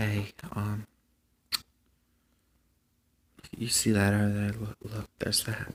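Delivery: very hushed, quiet, even, steady voice. Showing how to talk while fishing so fish aren't scared: quiet, steady voice. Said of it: "Talk to each other like this".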